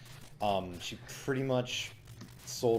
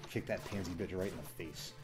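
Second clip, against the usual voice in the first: lowered, quieter voice, mock aside; retold whisper; 3 semitones lower, 7 dB quieter than usual. Coach leaning in to his student, retold low aside. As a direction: imitate a muttered aside, softly. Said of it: "whispers something like".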